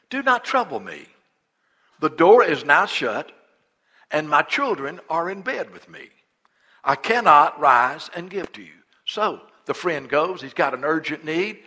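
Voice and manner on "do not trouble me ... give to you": a touch of an irritated refusal, louder; annoyed neighbour. Acted. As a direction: send him away from bed.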